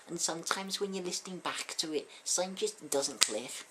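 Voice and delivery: a rough stab at a Scouse rock singer; poor Scouse accent. Acted. Host doing a bad Scouse impression of a rock singer. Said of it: "such a poor Scouse accent as that".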